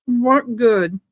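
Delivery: words round a mouthful of popcorn; munching popcorn. Real, not acted. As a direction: talk while chewing popcorn. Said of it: "I'm sorry I'm eating popcorn".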